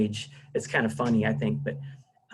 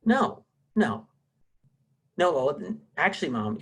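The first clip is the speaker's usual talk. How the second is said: mock arguing with mom on the phone; argumentative phone tone; 2 semitones higher than usual. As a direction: mimic her sharp turn on the phone, easing off by the end. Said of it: "Brandy's tone changed halfway through".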